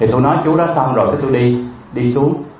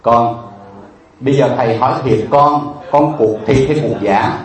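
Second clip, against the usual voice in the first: retold stern question, slowing at the end; slower than usual. Monk asks begging child if the amputation is real, stern. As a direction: question the child seriously, weighing the last words. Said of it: "Cái tôi nghiêm mặt tôi hỏi nó".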